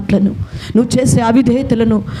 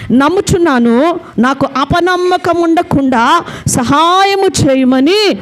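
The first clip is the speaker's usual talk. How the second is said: higher, slow loud plea; loud cry; 4 semitones higher than usual. Acted. Father crying out to the Lord, a high, slow, loud plea. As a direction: cry out in desperate faith. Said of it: "బిగ్గరగా చెప్పిన".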